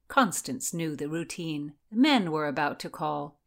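usual speaking voice

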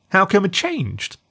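put-on high, slow curious boy; little boy voice. A narrator's reading. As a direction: wonder aloud like a small boy. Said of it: "asked the little husky".

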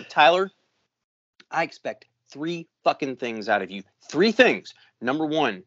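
a mock yell at the young worker, hammering each point; old guy yelling at a young buck, half-hammed; retold yelling lecture. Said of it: "the old guy yelling at the young buck".

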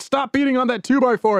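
annoyed worm voice. Pretend. Worms voiced complaining about vibration.

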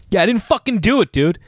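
high, fast indignant denial; hammed-up defiant protest; mock suspect. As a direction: play the wrongly accused, whining. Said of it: "Being a suspect".

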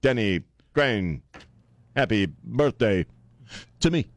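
Denny Crane with dramatic pauses; Shatner impression. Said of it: "If I were to talk like".

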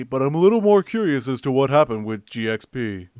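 lightly put-on listener voice with swooping tune; Colt Burr. Co-host reading a listener's question, light impression. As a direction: read it out as a mild impersonation of a confused fan. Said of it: "I'll do my real Colt Burr impression".

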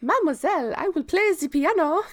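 a squeaky, eager child playing it up for laughs; French child. Mocking Adele's lines to Jane, in a high, hammed-up child voice. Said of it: "then she's like".

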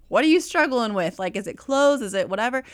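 asking a client what's tempting her; eager questions. Retold or imitated. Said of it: "and I'm like".

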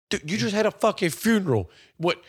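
incredulous scolding. Acted. Arguing with a dad after his kid's funeral, incredulous.

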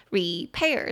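Repair with the stress on pair; stress on second syllable. Shown as a demonstration. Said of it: "中音节在后面".

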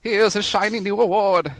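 lightly voiced fighting game announcer. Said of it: "That's your announcer voice".

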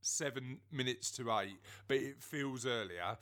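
gravelly early-morning voice. Real, not acted. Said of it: "apologies for my very gravelly voice".

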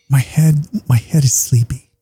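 put-on a drowsy little girl, whispered on the second phrase; sleepy kid voice. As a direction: play his tired daughter, half-whispering. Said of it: "I'm doing voices".

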